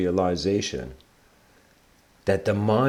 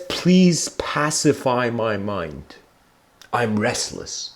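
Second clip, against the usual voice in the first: drawn-out, tired begging; slow weary plea; much slower than usual. Retold or imitated. Sleepless man begging Bodhidharma, slow weary plea. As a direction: plead slowly, worn out by no sleep.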